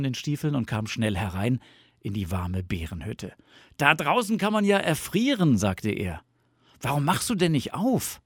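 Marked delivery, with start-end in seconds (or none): 3.8-5.6 high, loud indignant fox voice; complaining fox. A narrator's reading. Freezing Fox enters Bear's hut, complaining. 6.8-8.2 high-voiced, lightly indignant demand; reproachful fox. A narrator's reading. Fox left knocking in the snow, reproachful.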